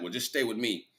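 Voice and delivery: slick, easy sweet-talk; smooth-talk her into staying; the villain sweet-talking the grieving wife, smooth and easy; smooth talker. Retold or imitated. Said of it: "Real smooth".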